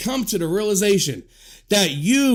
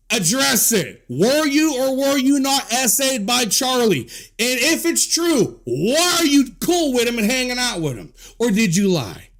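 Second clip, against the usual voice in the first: demanding chat message; 3 semitones higher than usual. Retold or imitated. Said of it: "go to her chat and say in the chat".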